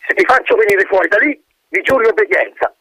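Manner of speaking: high, firm, measured colonel. Acted. Colonel spells out terms to the wind, firm. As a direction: bark each word at the stone. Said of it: "scandì con voce più forte".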